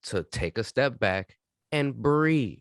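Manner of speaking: slow calm guidance. Shown as a demonstration. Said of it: "coaching listener to breathe".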